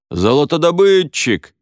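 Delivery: loud, high-pitched guess; eager guess. A narrator's reading. Pupil guessing Уилл's mime, loud and eager. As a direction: call it out eagerly. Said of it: "предположил другой ученик".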